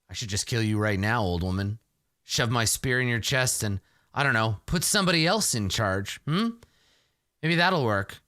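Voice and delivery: understated snarl, starting low; snarled threat. Acted. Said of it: "I snarl and I say".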